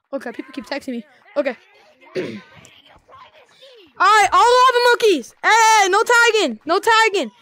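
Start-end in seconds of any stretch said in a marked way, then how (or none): 4.0-7.3 high, loud stern call; loud warning. Real, not acted. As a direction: shout the rule at players. Scolding players in game.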